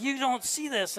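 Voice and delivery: exasperated disbelief. Retold or imitated. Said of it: "he's losing his mind".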